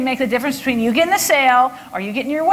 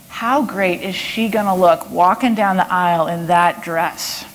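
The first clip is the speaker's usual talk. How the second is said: warm rapport line; 6 semitones lower than usual. Shown as a demonstration. Salesperson to the bride's posse about the dress, warmly admiring. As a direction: paint the picture in a lowered voice. Models line to bridal party.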